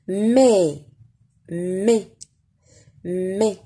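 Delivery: "mais" said with a closed é. Shown as a demonstration. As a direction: say "mais" with a tight, closed é like aigu. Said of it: "هنا عندنا l'accent aigu".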